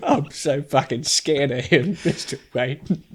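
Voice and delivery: mock-tearful scared butler, slow; drawn-out whimpering butler impression; badly faked crying fear; Michael Caine. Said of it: "it's, like, him crying".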